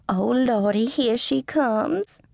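drawn-out, very slow Oh Lordy; dreading Miss Bertha. A narrator's reading. Miss Bertha spotting an unwelcome customer, slow dreading groan. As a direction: groan it out as trouble walks in.

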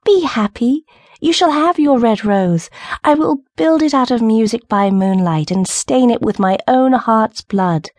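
high, earnest, rejoicing bird; high-voiced little bird giving comfort; nightingale's cry. A narrator's reading. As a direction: promise it eagerly, pitch lifted. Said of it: "cried the nightingale".

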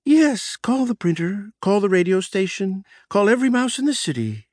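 high, bright gleeful calling out; gleeful announcement. Acted. Boss gleefully orders calls to everyone, high excited voice. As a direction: announce it with glee. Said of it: "I announced gleefully".

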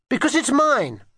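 high, insistent retort; quarrelling child. A narrator's reading. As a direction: argue back like a cross child. Children quarrel over a gun.

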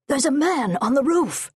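high, urgent warning shout; alarmed shout. Acted. Bearer warning the others of an attacker, high alarmed shout. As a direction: raise the alarm, pitch jumping up. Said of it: "One of them shouted".

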